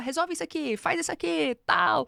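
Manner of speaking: mock hurried clipped delivery. Imitating someone who wants to be quick: imitating rushed curt orders. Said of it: "quer ser tão rápido que você só fala".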